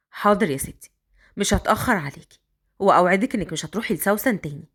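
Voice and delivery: put-on a man coaxing the girl upstairs.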